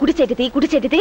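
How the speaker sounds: ordinary delivery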